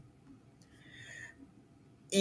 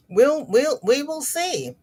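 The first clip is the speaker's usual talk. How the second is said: playful sing-song; 8 semitones higher than usual. Acted. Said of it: "teasing a lurking viewer".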